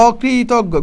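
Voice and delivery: অকৃতজ্ঞ stretched out slowly, opening with a clear open "o"; drawn-out model reading of অকৃতজ্ঞ; pronunciation demo. Shown as a demonstration. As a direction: sound out অকৃতজ্ঞ slowly for learners. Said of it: "এখানে অটা অর মতোই থাকবে".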